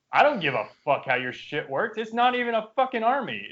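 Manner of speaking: exasperated inner rant, climbing in pitch; mock-seething dismissal; retold angry thought. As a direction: act out silent fuming at an opponent. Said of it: "I'm so mad".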